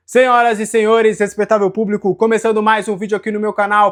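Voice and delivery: like a circus ringmaster opening the show. Acted. Grand welcome opening a show.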